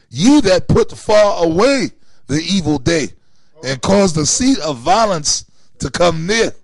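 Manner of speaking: slow, emphatic verse reading; scripture reading. A narrator's reading. Reading Amos to the listeners, slow and declamatory. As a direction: read out the verse deliberately, leaning on key words.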